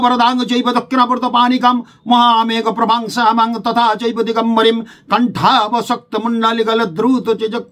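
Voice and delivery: steady recited Sanskrit dhyana; mantra recitation. Shown as a demonstration. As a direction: recite the Kali meditation verse in one unbroken flow. (ধ্যানমন্ত্র পাঠ)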